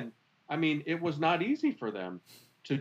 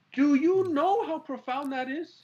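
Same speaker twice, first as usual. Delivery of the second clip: slow, louder, high and drawn out; awed emphasis; 9 semitones higher, 5 dB louder than usual. Real, not acted. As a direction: lean on every word in awe. Repeating his amazement, slower.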